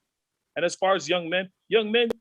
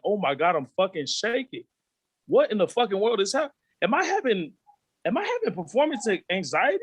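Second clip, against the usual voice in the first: mock panic; 4 semitones higher than usual. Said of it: "I'm like".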